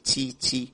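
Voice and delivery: تي said as a soft breathy puff, no voice; whispered ta sound. Shown as a demonstration. Teacher shows students the whispered ta, unvoiced تي. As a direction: breathe out the تي with no voicing. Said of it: "التاء مهموسة".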